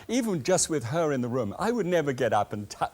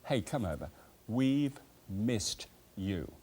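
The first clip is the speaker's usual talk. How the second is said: tender invitation; 3 semitones lower, 6 dB quieter, slower than usual. Shown as a demonstration. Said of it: "and say this to them".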